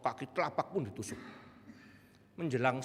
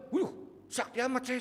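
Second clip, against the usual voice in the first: higher, a playful self-impressed brag; mock boast; 12 semitones higher, 3 dB louder than usual. Pastor jokes to himself about his own power, higher in mock boast. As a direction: tease yourself as a miracle worker. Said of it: "saya bilang".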